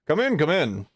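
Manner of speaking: lightly voiced welcoming host; a beckoning invitation; voice from indoors. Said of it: "you just hear a voice".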